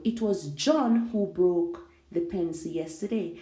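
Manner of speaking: "John" given the main weight; stress on John. Shown as a demonstration. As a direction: land firmly on "John", then ease through the rest. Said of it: "place emphasis on different, um, parts of the sentence".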